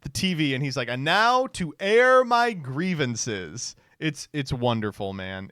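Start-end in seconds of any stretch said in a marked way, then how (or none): 0.9-3.8 slow, higher mock proclamation; Festivus grievance announcer. President getting on TV for Festivus, mock-ceremonious. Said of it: "the Seinfeld Festivus thing".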